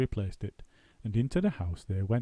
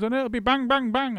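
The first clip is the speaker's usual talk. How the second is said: bang bang punched louder; gleeful; 14 semitones higher, 6 dB louder than usual. A narrator's reading. Missus Twit gloating over shooting birds. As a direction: relish each bang.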